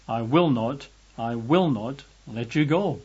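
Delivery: steady stress on each "will"; measured refusal, "will" lifted each time; emphatic repetition. Retold or imitated. Preacher renders God's promise from the Greek, emphatic.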